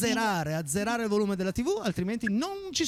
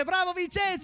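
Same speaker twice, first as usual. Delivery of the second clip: showy game show host; 9 semitones higher than usual. Real, not acted. Host praising child contestant.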